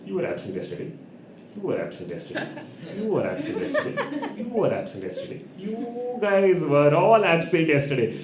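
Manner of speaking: suspicious teacher. Retold or imitated. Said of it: "Then she's like".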